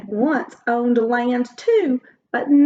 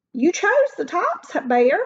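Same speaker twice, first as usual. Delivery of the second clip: sly Hare; 6 semitones higher than usual. Acted. Hare replies slyly.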